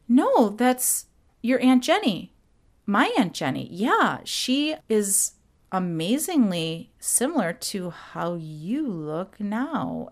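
a lightly voiced motherly Carol, awed then fading; Carol's impression. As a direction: mom revealing a family secret, slowing and softening. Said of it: "I'm gonna be doing some impressions".

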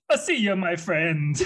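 slow, hammed-up French goodbye through laughter; bad French accent, laughing; French accent attempt. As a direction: say it like a cheesy French guy. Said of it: "you can do a French accent".

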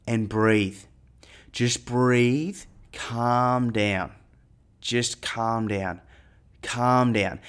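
slow, soft, steady calming. Retold or imitated. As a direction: talk her down gently. Calming panicked friend on cliff.

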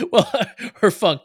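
repeating it through laughter; laughing as she agrees. Real, not acted.

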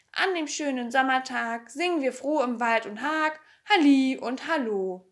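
song lyrics spoken in metre; rhythmic verse recitation. A narrator's reading. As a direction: recite it like a children's rhyme.

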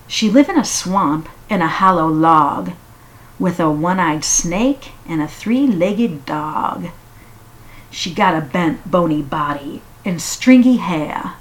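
rhythmic storytelling read; measured poetic recital; poem reading. Acted. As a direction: read it like a spooky bedtime poem. Reads Silverstein poem aloud.

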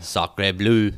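mock French exclamation in French accent; hammed-up French accent exclamation. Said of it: "It's a French day".

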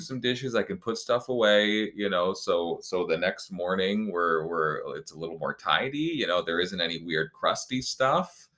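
a hint of an eager helper escaping the table; cheerful fake helpfulness. Acted inner voice, fast, high.

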